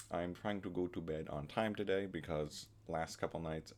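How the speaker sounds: retainer slurring the words; wearing a retainer. Real, not acted. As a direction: talk round a retainer. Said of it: "I don't have to sound like this".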